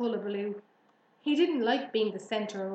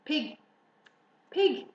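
higher-pitched coaxing call; kind voice; 6 semitones higher, 6 dB louder than usual. A narrator's reading. Farmer luring pig to barnyard, kindly. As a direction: coax the pig along kindly. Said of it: "in a kind voice".

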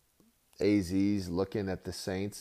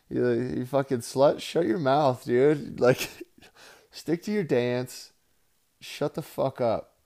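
mock angry yell; 4 semitones higher, 6 dB louder, slower than usual. Mock yelling at Stormy.

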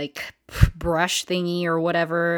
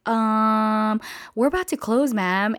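hesitant, higher-pitched customer-service voice; drawn-out um, then a polite high let-down; reluctant refusal; 4 semitones higher than usual. Retold or imitated. Server to late customers at closing, politely reluctant.

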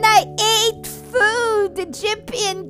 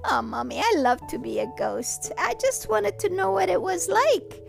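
gentle mother. Acted. Mother talks softly to son.

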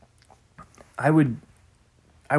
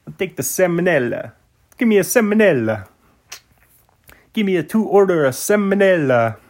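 mock customer order; 6 semitones higher, 4 dB louder than usual. Jokey ordering salmonella at counter.

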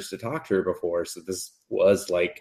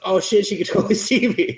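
much higher, fast, laughing through it; giggly high voice; 11 semitones higher, faster than usual. Retold or imitated. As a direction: blurt it out giggling. Cupid voiced in recap.

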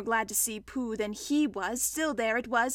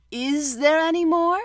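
higher and louder, eager; quick, eager question; 5 semitones higher, 7 dB louder than usual. A narrator's reading. Pooh asking Rabbit for more food, eager. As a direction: jump in hopefully with the question. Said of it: "asked Pooh quickly".

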